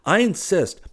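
high, emphatic and cheery; gaily. A narrator's reading. Hastings pressing Clifford for a promise, gaily. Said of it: "he said gaily".

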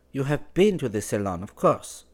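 high, light woman's voice, cool and teasing; young Parisian woman. Acted. Valentine asks Clifford why he is not at Versailles, in a high, teasing woman's voice. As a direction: play her as poised and a little mocking.

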